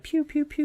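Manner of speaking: soft, high "pew pew pew"; quiet toy-like ray gun imitation; laser gun noises. Describing the future guns, soft imitated laser shots.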